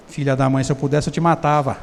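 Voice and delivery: low, soft muttered aside; hidden inner grudge. Pretend. Teacher voices a liar's hidden thought, low and soft. Porque eu posso ser um ator frustrado.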